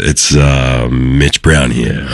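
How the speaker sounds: slow, smooth late-night radio DJ. Acted. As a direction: croon it like an eighties love-song DJ. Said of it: "nineteen eighties FM radio".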